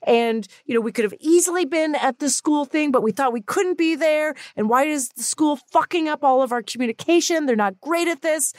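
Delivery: high-pitched worked-up rant; retelling a mounting inner tirade. Retold or imitated. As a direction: spiral into a flustered, indignant complaint. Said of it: "I was just getting all worked up".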